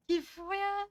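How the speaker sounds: nagging husband. Acted. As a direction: play the fed-up husband nagging her. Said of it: "en mode".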